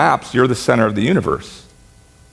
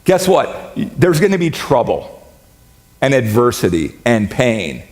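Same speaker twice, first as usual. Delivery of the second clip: cheery announcement. Retold or imitated. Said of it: "He says".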